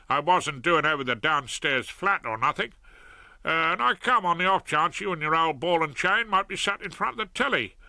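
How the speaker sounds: a lightly voiced cheerful South London crook; cheery Fred. Fred explains his visit.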